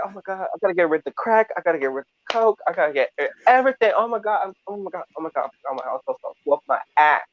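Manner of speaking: fast, frantic babbling; a panicked boy rushing to dump his stash; frantic mock panic. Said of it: "he's like".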